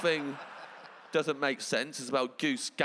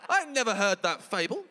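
laughing heckler; 9 semitones higher, 7 dB louder than usual. Retold or imitated. Heckler quote through laughter.

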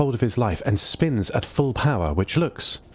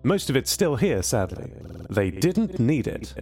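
a lonely machine mourning its crew; lightly voiced C O, a touch sad; 4 semitones higher than usual. C O on his dead crew.

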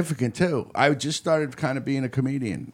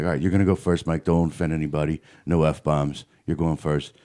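much lower, matter-of-fact host voice; host's instructions; 8 semitones lower than usual. Retold or imitated. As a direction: give the comic his rules like a gruff emcee. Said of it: "Al Ernst, he's like".

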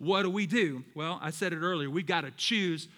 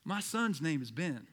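low, soft, deadpan dad; understated, low-key punchline; weary dad's confession; 4 semitones lower, 7 dB quieter than usual. Retold or imitated. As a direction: deliver it quietly with long pauses before each reveal. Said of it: "kinda stood back and looked at her".

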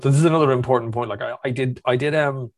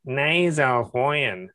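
raised nasal Dublin whine, very slow; Dublin accent; 3 semitones higher, much slower than usual. Shown as a demonstration. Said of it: "go up a register and into your nose".

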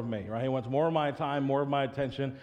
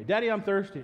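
put-on higher kid plea; little son's voice; 7 semitones higher, 3 dB louder than usual. Child voice quoted.

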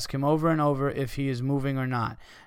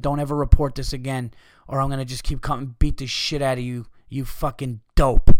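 mock scream; 7 dB louder than usual. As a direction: yell it at the radio guy while smacking him.

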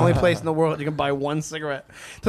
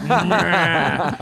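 disgusted grunt; 4 dB louder than usual. Retold or imitated. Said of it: "I was like".

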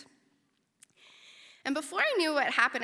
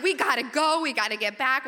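mildly panicked, louder at the start; urgent; 2 semitones higher, 5 dB louder than usual. Retold or imitated. Stung researcher hurries the boat back, urgent mild panic. Retold urgent order to leave.

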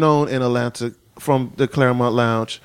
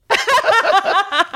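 tongue smack. Shown as a demonstration. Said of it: "Okay, do it".

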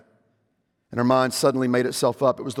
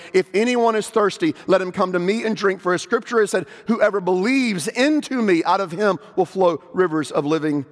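raised, high-pitched proclaiming call; loud proclaiming cry; 6 semitones higher than usual. A narrator's reading. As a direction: cry it out to the whole crowd. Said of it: "cried in a loud voice".

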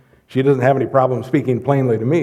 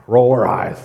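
exasperated sigh; 5 semitones lower than usual. Retold or imitated. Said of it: "like my mom used to sigh".

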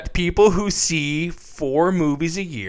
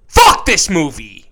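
angry outburst; 2 semitones higher, 7 dB louder than usual. Real, not acted. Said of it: "That's me, not the character".

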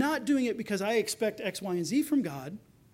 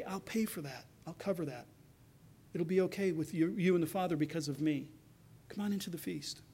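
tender reassurance; 3 semitones lower, 5 dB quieter than usual. Acted. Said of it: "he said".

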